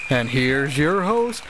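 high, slow, booming game show announcer; grand announcer. Acted. Announcer finally introducing the show, grand and booming. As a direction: stretch the title out like a TV announcer. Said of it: "keep it grand and intrusive".

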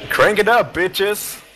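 high-pitched rowdy cheer; excited rallying cry. Real, not acted. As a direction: fire up the crowd with a high, punchy shout. Rousing cry during race broadcast.

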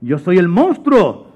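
slow, stretched, menacing monster voice; giant monster. Acted. Monster waking Mateo to eat him, menacing and slow. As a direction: boom it out slowly as a monster. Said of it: "volvió a salir aquel monstruo".

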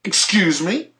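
high, rising disbelief, as if mishearing; incredulous. Real, not acted. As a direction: ask it back, truly disbelieving. Reacting in disbelief to news clip.

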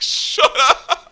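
whispered through laughter; laughing whisper. Retold or imitated. Muttering to himself while the old lady talks, laughing whisper. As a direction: hiss it under your breath, half laughing. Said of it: "I was like".

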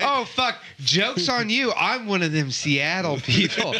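mock gotcha gloat. Acting out interviewer's gotcha.

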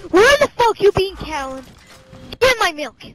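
loud angry shout at his wife; mock husband yelling. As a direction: yell for her, annoyed. Yelling at wife character in game.

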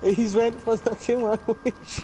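slow, through laughter; repeating the joke while laughing. Real, not acted. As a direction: laugh it out slowly. Laughing at the game voice.

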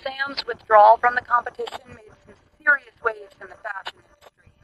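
very faint, far-off phone voice. A narrator's reading. Doctor asks Thomas who protects Sam's image, faint phone voice. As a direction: relay the news from a distant line. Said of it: "heard Thomas's voice on the line".

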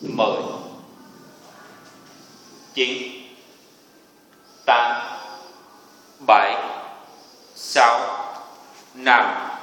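barking gym coach. Real, not acted. Instructor counting down a hold.

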